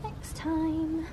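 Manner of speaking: very quiet, soft delivery.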